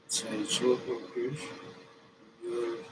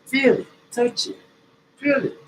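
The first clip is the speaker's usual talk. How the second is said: much higher, louder short commands; high coaching cues; 13 semitones higher, 8 dB louder than usual. Shown as a demonstration. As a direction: call the cues up high like a trainer. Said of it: "coach cues".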